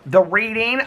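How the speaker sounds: high eager answer; light up at the words The reading; excited. Retold or imitated. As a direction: squeal the answer to a friend, high. Answering what she's excited about.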